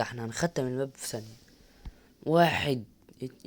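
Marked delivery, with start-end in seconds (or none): 2.3-3.5 strained count. Real, not acted. Straining to lift heavy weight.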